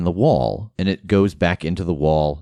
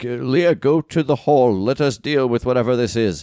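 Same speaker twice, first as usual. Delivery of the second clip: high-pitched shouted yell; 6 semitones higher than usual. Voicing a character running toward screams, calling back to Leah: yelling back. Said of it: "he yells back".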